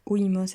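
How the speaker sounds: "oïmos" with weight on the I; "oïmos", a separate, stressed I after the O. Shown as a demonstration. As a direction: lean on the "ï" in "oïmos". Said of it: "accent sur le I".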